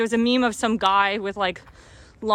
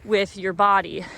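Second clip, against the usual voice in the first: out of breath from walking uphill; breathless, gasping between phrases; 2 semitones higher than usual. Real, not acted. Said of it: "Sorry, I'm out of breath".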